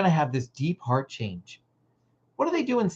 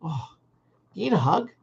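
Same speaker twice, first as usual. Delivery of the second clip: tender offer. Shown as a demonstration. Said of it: "just said".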